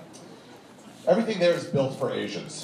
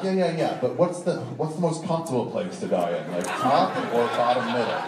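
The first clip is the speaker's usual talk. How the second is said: laughing question. Retold or imitated. Asking about the deadly bus.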